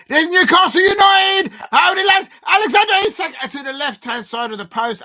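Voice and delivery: shouted live football call, high and loud; excited shout. Real, not acted. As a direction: yell it as the chance unfolds, easing off at the end. Live call of a Newcastle attack.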